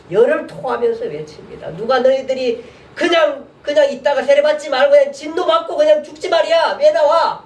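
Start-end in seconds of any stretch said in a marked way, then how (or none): 1.8-7.4 preaching shout. Retold or imitated. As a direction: scold the crowd like a wild prophet. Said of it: "이러면서 막 외칩니다".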